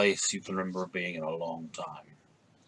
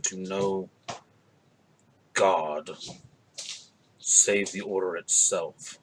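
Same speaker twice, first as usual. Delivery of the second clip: low gravel growl; slow, deep and gravelly; 2 semitones lower, slower than usual. Acted. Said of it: "a kind of a deep, gravelly voice".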